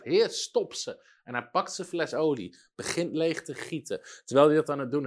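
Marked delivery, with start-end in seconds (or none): 0.0-1.1 slow, higher-pitched imitated plea; bold, almost angry. Preacher acting out an evangelist's faith, bold and almost angry. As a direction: draw it out as a bold demand to God. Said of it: "bijna een soort nijdigheid, een soort, een soort vrijmoedigheid".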